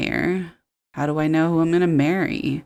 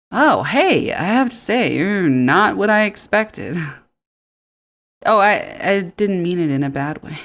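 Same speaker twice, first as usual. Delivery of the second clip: Noah; 2 semitones higher than usual. Acted.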